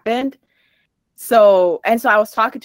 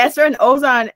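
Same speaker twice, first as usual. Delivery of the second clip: louder, questioning repeat of the names; incredulous echo; 3 semitones higher, 5 dB louder than usual. Retold or imitated. Retelling her confused reply to her friend, incredulous. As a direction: imitate yourself echoing it in disbelief.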